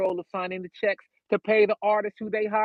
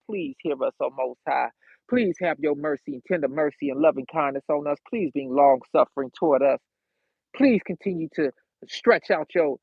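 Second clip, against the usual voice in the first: earnest prayer in lower, falling phrases; pleading prayer; 3 semitones lower than usual. Real, not acted. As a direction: plead with God, please after please. Prays aloud to God.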